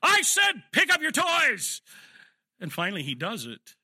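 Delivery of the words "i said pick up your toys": top-of-the-voice, slow yell; you really mean it now, scream it; a parent's furious, slow shout; full yell. Retold or imitated. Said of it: "this time you really mean it".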